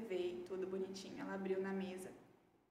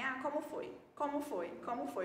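lightly imitated insistent mother; insistente; 3 semitones higher than usual. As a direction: pester with repeated questions, slightly higher. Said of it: "Perguntando o tempo todo". (imitando de leve uma mãe insistente)

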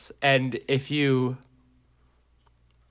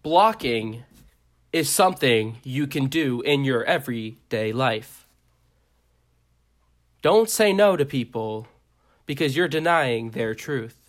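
mock slam poetry. Improv advice to listeners, mock slam-poetry reading. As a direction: slam poet with pauses between phrases. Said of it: "This has been a slam poetry reading".

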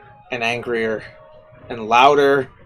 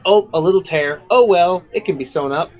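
over the moon; 4 semitones higher than usual. Acted. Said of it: "so over the moon and so excited".

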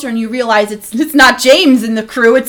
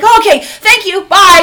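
put-on higher, eager-to-escape kid; imitated hurried kid; 4 semitones higher, 4 dB louder than usual. Grilled kid darting out after directions, imitated relief. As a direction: play a kid making a quick getaway.

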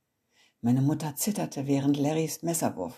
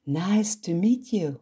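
put-on American accent; 3 semitones higher, 5 dB louder, slower than usual. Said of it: "In amerikanischem Akzent flüsterte sie".

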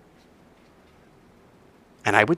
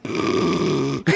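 imitated snore; 3 semitones higher than usual. Jesus sleeping in the boat.

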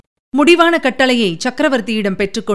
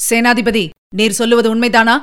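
roaring demand. Acted. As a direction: demand the truth with an understated roar. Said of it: "என்று கர்ஜித்தார்". (மிதமான கர்ஜிக்கும் குரலில் கேள்வி)

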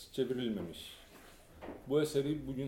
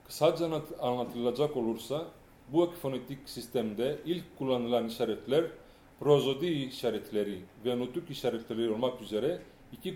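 a bit more projected, clearer; speaking up. Real, not acted. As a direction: push the voice out to the room. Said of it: "sesinizi biraz daha yükseltirseniz".

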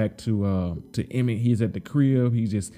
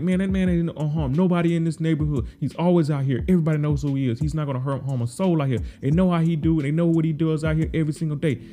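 higher, insistent retold protest; heated defense; 5 semitones higher than usual. Trigg defending the man to police, higher heated insistence. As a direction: stick up for the neighborhood man. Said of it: "He's like".

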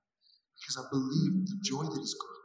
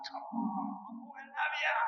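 much higher shout of pride; proud shout; 11 semitones higher, 5 dB quieter than usual. Retold or imitated. Preacher voicing God shouting proudly over a believer, much higher. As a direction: yell it out over your boy. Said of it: "he's shouting like".

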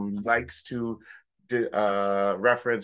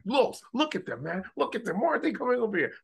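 much higher put-on voice, exasperated; imitating the groom; 13 semitones higher, faster than usual. Groom pointing at the late friends, high imitating voice. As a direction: squeak out his complaint. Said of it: "It's like".

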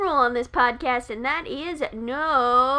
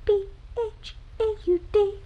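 dramatic spelled reveal; 6 semitones higher, 4 dB quieter than usual. Pretend.

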